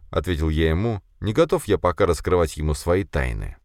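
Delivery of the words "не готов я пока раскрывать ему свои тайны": usual speaking voice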